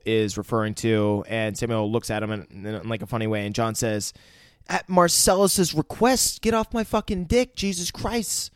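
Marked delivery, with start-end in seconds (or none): 4.7-8.5 mock high squeal. Friend mocking John's line in a high squeaky voice. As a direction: squeak it out like a silly caricature. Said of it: "He doesn't say it like that".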